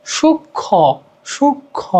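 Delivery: সূক্ষ্ম soft, "shuk-khõ", lifted nasal vowel; nasalized ending. Shown as a demonstration. Teacher illustrating nasalization, soft nasal সূক্ষ্ম. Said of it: "আনুনাসিক হয়".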